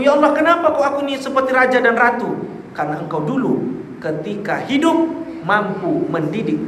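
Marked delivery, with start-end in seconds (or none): 0.0-2.3 raised-pitch puzzled exclamation; bewildered. Retold or imitated. Parent asking God why they sit like royalty, acted bewilderment. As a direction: play a baffled parent, pitched up high. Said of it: "Dia bingung".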